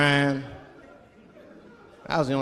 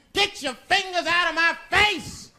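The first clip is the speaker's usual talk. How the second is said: 1 mock retort; 13 semitones higher than usual. His retort to the owner.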